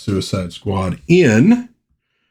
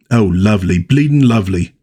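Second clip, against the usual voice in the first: put-on a light, half-hearted Australian accent; a lightly voiced Australian twang. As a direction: try a quick Aussie accent on it. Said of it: "that's supposed to be an Australian accent".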